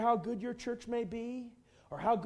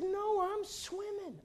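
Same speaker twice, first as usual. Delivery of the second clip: mock-casual reply; 11 semitones higher, 6 dB quieter, slower than usual. Friend's unbothered reply.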